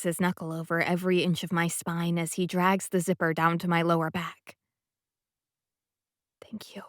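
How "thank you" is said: a soft breathy thank-you; just breathe it out; whisper. A narrator's reading. Thanking Sebastian after the zipper, whispered. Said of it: "I whisper when he's done".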